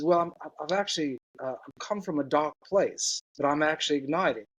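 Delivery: clumsy imitation of a South African man; bad South African accent. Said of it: "That was a really bad accent".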